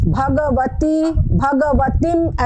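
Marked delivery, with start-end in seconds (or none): 0.1-1.1 भगवती drawn out very slowly, syllable by syllable; slow recitation. Shown as a demonstration. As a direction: chant भगवती slowly and evenly. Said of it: "ऐसा भी पढ़ सकते हैं इसको".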